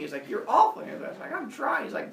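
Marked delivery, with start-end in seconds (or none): 0.3-0.8 high, loud mock scolding; acted fed-up teacher; yelling teacher. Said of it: "yelling at him". 1.3-1.8 high-pitched pupil's whine; acted defensive whine; whiny protest.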